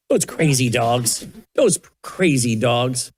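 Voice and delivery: calm her down after the fright; soothing. Real, not acted. Soothing startled toddler.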